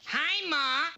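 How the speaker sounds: put-on high, bright kid's greeting; child caught red-handed, chirpy; cheery little boy.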